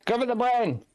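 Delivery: high shouted battlefield order; loud gung-ho soldier. Acted. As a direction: bark it to the party like a soldier. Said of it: "I will yell this out to my".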